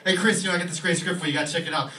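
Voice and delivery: loud, high-energy agent pitch; eager agent. Retold or imitated. Agent pitching a script to Chris, loud and eager. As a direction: sell the script hard. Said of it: "his agent walks in and he goes".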